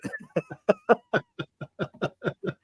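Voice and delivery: high, breaking-up laughter; real laughter. Real, not acted. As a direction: crack up mid-sentence. Laughing at the insult joke.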